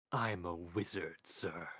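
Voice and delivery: slow mocking echo of the wizard; sneering. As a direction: sneer it back at him slowly. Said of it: "Death sneered".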